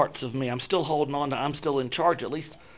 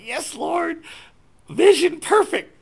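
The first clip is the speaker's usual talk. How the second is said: high, slow, thrilled declaration; excited; 14 semitones higher, 6 dB louder, slower than usual. Retold or imitated. Man praying in line, sure he is healed, ecstatic. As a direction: proclaim the miracle like it already happened. Acted joy at expected healing.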